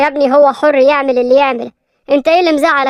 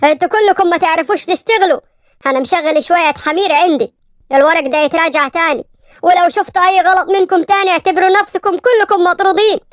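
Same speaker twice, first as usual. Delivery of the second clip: angry yelling; 4 semitones higher than usual. Acted. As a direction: boss scolding staff, raised and harsh. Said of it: "بغضب وهو بيزعق للموظفين".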